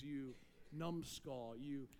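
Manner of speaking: low, soft, slow mock insult; muttered insult. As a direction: hiss the insult under your breath, slowly. Preacher voices insult.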